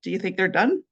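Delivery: playful sarcastic question; light sarcasm. Shown as a demonstration. Joking about someone's burnt cookies, light sarcasm. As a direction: tease lightly, rising at the end. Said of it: "Sarcasm would sound something like".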